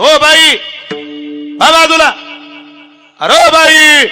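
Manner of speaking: high, loud panicked yelling for her to move; frantic shout. Retold or imitated. Cyclist with no brakes yelling at the woman ahead, loud and frantic. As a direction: bellow a warning from a runaway bicycle. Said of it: "तो तिला आवाज येतो".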